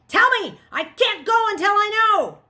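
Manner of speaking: loud, high demanding yell; desperate shouting. Acted. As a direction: scream at the silent screen.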